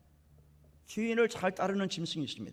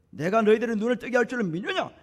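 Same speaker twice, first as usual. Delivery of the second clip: loud preacher's rendering of a searching question; challenging Jesus; 4 semitones higher, 7 dB louder than usual. Retold or imitated. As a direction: press the question home, ending on a rise. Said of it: "이렇게 물어봤어요".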